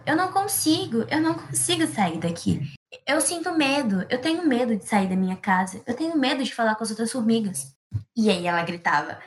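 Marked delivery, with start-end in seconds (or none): 0.0-7.7 fearful mild cry. Acted. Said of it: "E ela gritava".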